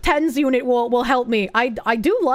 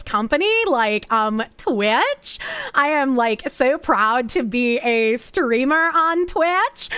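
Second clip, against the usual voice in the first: put-on Valley Girl voice. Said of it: "use your Valley Girl voice".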